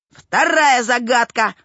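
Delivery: slow, measured announcement; drawn-out, lightly pompous proclamation; proclaiming. A narrator's reading. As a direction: announce it like a master of ceremonies. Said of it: "провозгласил Вовка".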